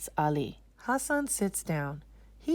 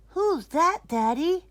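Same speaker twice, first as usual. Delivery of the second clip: put-on higher, slower child question; curious little boy; 11 semitones higher, 5 dB louder, slower than usual. Hassan asking Daddy about the mimbar, curious boy. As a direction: ask it wondering.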